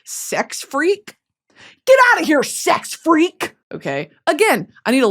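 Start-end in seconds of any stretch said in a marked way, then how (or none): 0.0-3.5 mock bartender outrage. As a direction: play the bartender throwing you out. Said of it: "They're like".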